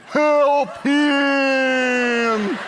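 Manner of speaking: high, loud yelping dog voice; neighbor dog. Retold or imitated. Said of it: "the neighbor dog joins in".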